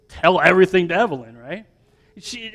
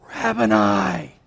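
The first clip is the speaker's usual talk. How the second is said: hushed cry of recognition; 5 dB quieter, slower than usual. Acted. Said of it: "cried out in Aramaic".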